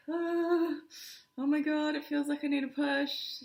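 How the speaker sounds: high, loud pained cry of a woman in labour; retold labour cry. Woman in labour in the shower, crying out high and loud. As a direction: relive the urge to push, crying out high and loud.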